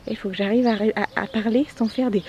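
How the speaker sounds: breathless, struggling for air; out of breath while talking. Real, not acted. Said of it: "j'arrive pas à respirer".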